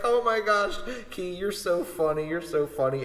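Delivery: high, excited gushing; classmates gushing. Retold or imitated. Classmates gush over Key in class, high and excited. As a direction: fawn over the class clown.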